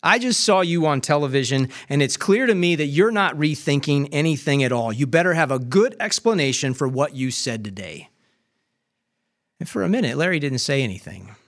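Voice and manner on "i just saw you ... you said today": a touch of stern anger, pressing hard; firm rebuke. Retold or imitated. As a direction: scold him plainly but firmly. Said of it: "Rightfully angry".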